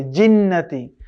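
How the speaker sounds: জিন্নাতি with a firm hard j; জিন্নাতি, jim said strong. Shown as a demonstration. Teacher shows students the firm jim. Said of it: "জিমটাকে শক্ত করে পড়তে হবে".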